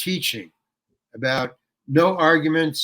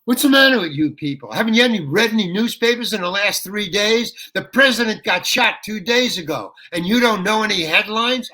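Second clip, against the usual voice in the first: higher, louder indignant tirade; angry rant; 4 semitones higher, 3 dB louder than usual. Retold or imitated. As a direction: berate the audience, fed up. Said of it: "I start ranting at them".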